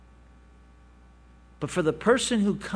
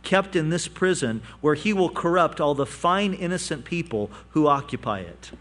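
dry mock outrage from the king; lightly sarcastic royal decree; a touch of sarcasm, king mocking the prison. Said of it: "he said sarcastically".

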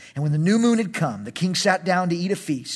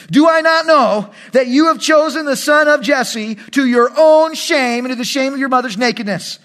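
loud and higher, raging at his son; furious king; 6 semitones higher, 5 dB louder than usual. Acted. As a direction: thunder at the son who betrayed you. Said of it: "Then Saul's anger was aroused".

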